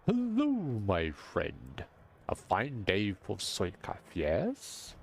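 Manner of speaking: slow, drawn-out booming greeting; slow hearty merchant welcome; booming jolly merchant. Shown as a demonstration. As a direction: roll it out like a big jovial man. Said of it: "more like".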